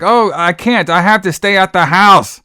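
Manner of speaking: shrill mock yell, pitched high; mock screaming. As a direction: overact a girl yelling her lines. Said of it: "Am I screaming enough".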